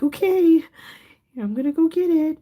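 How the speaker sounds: high loud spaced-out movie voice; movie character impression. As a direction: do the sleepwalking Wayans brother line. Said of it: "one of the Wayans brothers like".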